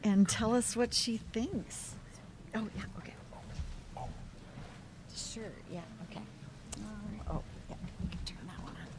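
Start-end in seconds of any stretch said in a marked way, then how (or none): 2.5-8.9 hushed whisper. Real, not acted. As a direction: whisper so the room stays quiet. Quiet studio, hushed talk before going live.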